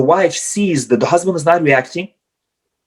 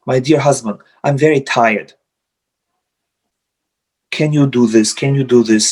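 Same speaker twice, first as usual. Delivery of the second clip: gentle explaining; 3 semitones lower than usual. Retold or imitated. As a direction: speak to a tired spouse, kindly. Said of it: "she would just express it".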